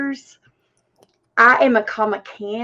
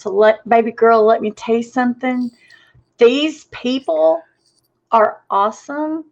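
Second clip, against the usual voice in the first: put-on sassy Southern accent. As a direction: talk down to her like a sassy Southern aunt, in a mild Southern accent. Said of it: "Why does that always sound better with a Southern accent".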